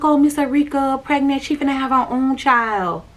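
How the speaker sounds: breezy, easy telling, no edge; not nasty. Retold or imitated. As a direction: break the news gently to small kids. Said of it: "But how I said it was".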